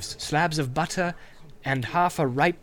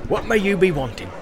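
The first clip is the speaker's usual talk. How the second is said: higher, louder jolly landlord voice; bustling innkeeper; 4 semitones higher, 4 dB louder than usual. Acted. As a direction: greet the guest heartily. Innkeeper greets hobbit.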